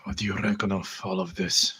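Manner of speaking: ordinary delivery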